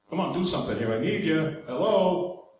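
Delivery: put-on New York accent. Preacher prodding the congregation for a response, playful New York accent. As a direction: lean briefly into New York speech. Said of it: "That's my New York accent".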